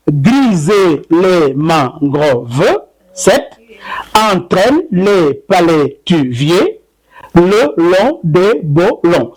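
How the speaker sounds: slow, drawn-out poetic recital of the haiku. Shown as a demonstration. Poet showing his haiku to the host, slow recital. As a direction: savour each line like a poem. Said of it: "quand je dis".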